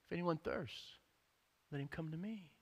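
Jesus's call. Retold or imitated. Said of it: "Jesus said".

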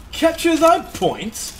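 high, slow, hammed-up old English question; puzzled lord in old-timey English; mock old-timey English. Gamer reads the objective in hammed-up old English accent. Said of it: "Old-timey English".

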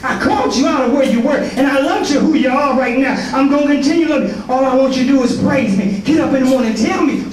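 rolling, rhythmic sermon cadence; preaching. Acted. Pastor exhorting the congregation, in a preaching cadence. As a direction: preach it to the church, building each line.

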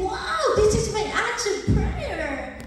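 high, loud, laughing delight; overjoyed. Retold or imitated. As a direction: burst out with joy at the answered prayer. Overjoyed at friend's call.

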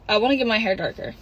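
same line said quickly. Shown as a demonstration. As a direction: rush through it this time. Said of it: "That was a change of".

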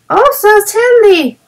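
put-on calm matter-of-fact girl, still high; as if it were obvious; calm little girl agreeing; tranquil. A narrator's reading. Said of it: "said Violet, with tranquillity".

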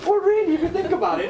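high, loud mock-surprised friend; imitating a friend, mock surprise; mocking imitation. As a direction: parody his "oh really". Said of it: "But I said".

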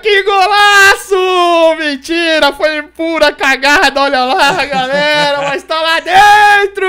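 screaming goal, very high and loud; explosive goal commentary. Real, not acted. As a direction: erupt like a narrator after a goal. Scoring a winning goal. (narração de gol explosiva)

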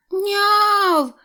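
high squeaky kitten meow; a tiny meow from inside the sack. A narrator's reading. The sack squeaks a high little meow. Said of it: "пискнув мішок".

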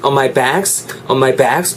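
"bags" with a stretched A; long vowel. Shown as a demonstration. Teacher models for practice, lengthened vowel. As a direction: hold the A in "bags". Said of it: "좀 길게 연습해 주시면 좋겠다는".

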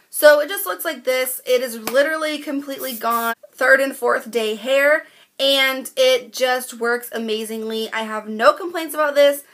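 congested, nasal from a cold; stuffy nose. Real, not acted. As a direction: talk through a blocked nose. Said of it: "Sorry if I sound really congested or nasally".

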